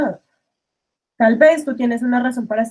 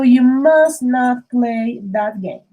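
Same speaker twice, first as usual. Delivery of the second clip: slow demo; 2 semitones lower, much slower than usual. Shown as a demonstration. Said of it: "you shouldn't be doing that".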